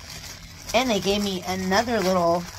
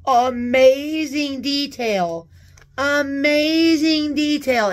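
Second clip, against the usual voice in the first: drawn out, louder, savoring; slow admiring gush; 5 semitones higher, 5 dB louder, slower than usual. Real, not acted. Admiring the purse, slow awed gushing. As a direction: linger on every word in awe.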